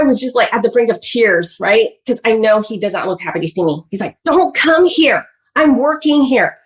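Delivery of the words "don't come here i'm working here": stern father. Retold or imitated. Father sending child away.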